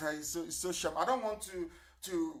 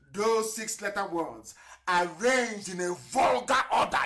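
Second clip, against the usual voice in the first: reading the quote aloud; 3 dB louder than usual. Retold or imitated.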